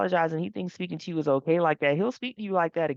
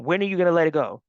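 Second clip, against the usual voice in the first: louder, fast impatient retort; mock irritated snap; 6 dB louder, faster than usual. Rob snapping at his fiancée to drop it, in quick louder irritation. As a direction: brush her off as if fed up. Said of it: "he immediately went".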